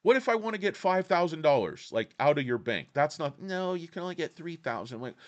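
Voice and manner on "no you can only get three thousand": big banker voice. Retold or imitated. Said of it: "doing my big banker voice".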